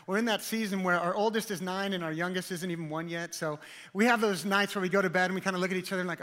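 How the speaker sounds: usual speaking voice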